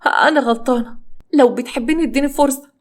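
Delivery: high-pitched begging; pleading. Acted. Wife asking betrayed husband for a chance, pleading.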